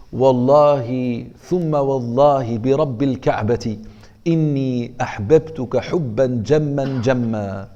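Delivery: slow, drawn-out oath of love, half-joking; mock love oath. Teacher jokingly swears love to a future wife, slow and earnest. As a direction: swear it like a devoted husband, playfully.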